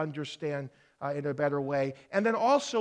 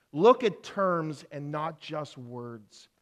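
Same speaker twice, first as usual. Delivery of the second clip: slow dictation; slower than usual. Shown as a demonstration. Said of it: "You can jot these down".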